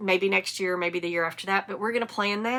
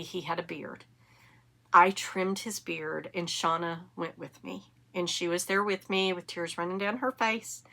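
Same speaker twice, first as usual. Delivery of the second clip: holding back tears; 2 semitones lower, 5 dB quieter than usual. Real, not acted. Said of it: "I'm gonna try not to cry".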